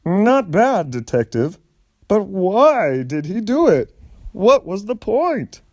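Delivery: curious, impressed manager pressing for answers. A narrator's reading. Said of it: "The manager asked".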